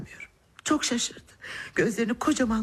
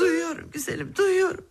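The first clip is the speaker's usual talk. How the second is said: joyful; 8 semitones higher than usual. Acted. Child speaks, mother overjoyed.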